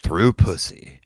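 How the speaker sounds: slow, drawn-out trailer announcer; mock-epic narration in slow chunks; movie trailer voice. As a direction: stretch each phrase like a film voice-over. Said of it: "It's like the movie voice".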